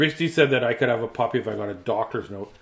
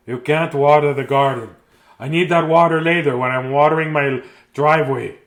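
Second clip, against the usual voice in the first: stern grandpa; 7 dB louder than usual. Acted. Acts grandpa refusing in story.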